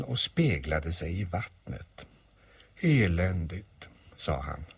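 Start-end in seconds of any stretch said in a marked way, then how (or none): 2.8-3.9 slow, drawn-out gloomy donkey. Acted. Old donkey sees his reflection, gloomy drawl. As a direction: drag the word out dismally. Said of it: "sa Ior dystert".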